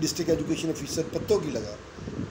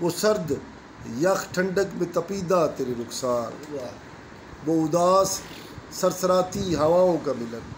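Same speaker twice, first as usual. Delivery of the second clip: stately nazm recitation; 3 semitones higher, slower than usual. Acted. Recites his own nazm.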